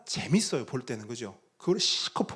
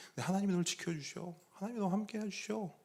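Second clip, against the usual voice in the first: tender reassurance; 6 semitones higher, 9 dB quieter, faster than usual. Retold or imitated. Father reassuring daughter about God.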